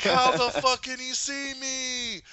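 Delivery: high, slow disbelieving cry; high drawn-out bewilderment; stunned Flash. Retold or imitated. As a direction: act baffled and amazed. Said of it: "He's like".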